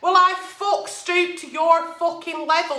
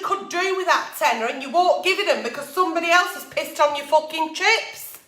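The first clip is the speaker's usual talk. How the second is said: real heated rant, sweary and building. Real, not acted. Ranting at friends who owe money, heated. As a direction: let the anger boil over at the cheeky borrowers. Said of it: "sorry for getting a bit, um, heated up there".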